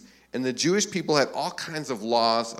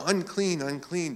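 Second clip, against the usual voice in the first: half-hearted shout; 5 semitones higher than usual. Retold or imitated. Leper warning people to keep away, mock shouting. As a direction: imitate a warning cry without real volume. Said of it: "they had to kind of shout out".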